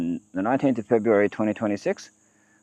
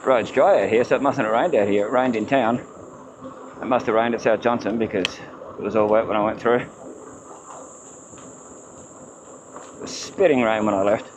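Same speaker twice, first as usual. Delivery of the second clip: muffled. Real, not acted. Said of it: "Sorry about the muffled sound".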